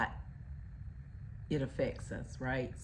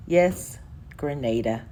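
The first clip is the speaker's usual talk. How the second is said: emphatic repeat; 7 dB louder than usual. Acted. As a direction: hammer the name home with a firm yes. Repeating the destination.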